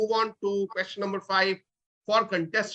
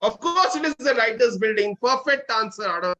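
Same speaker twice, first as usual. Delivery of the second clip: excited; 3 semitones higher, 4 dB louder than usual. Real, not acted. Host cheers a right answer.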